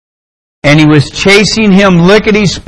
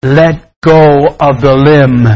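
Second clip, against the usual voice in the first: slow, measured command; authoritative voice; 3 semitones lower, slower than usual. Acted. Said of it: "the authoritative voice said".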